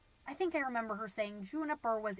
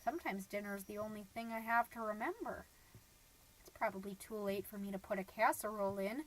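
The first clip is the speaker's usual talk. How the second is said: bleak brooding; 2 semitones lower, 5 dB quieter than usual. Acted. Mom dwelling on husband's dinner of cocktail weenies, bleak brooding. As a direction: sink into a soft, monotone dark reverie.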